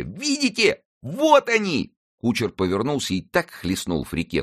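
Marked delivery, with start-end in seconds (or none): 0.0-1.9 very high, slow drawn-out call to the crowd; high boy's call. A narrator's reading. Friquet showing the crowd the pikes, high drawn-out call. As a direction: point it out to everyone. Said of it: "кричал Фрике".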